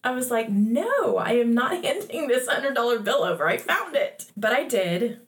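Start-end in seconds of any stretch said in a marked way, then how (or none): 0.5-4.3 playful retold child's defiance, pitch lifted; mildly rebellious. Daughter recalls refusing to hand over the bill, mock rebellious. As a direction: refuse like an indignant kid, lightly acted. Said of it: "a little bit of rebellion".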